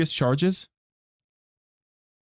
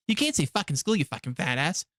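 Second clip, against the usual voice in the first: South Park quote; 3 dB quieter than usual. Retold or imitated. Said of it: "Fucking South Park".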